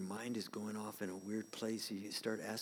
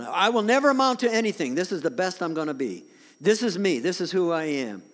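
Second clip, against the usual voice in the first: despairing inner voice; 8 semitones higher, 13 dB louder than usual. Retold or imitated. Voicing a defeated self-talk.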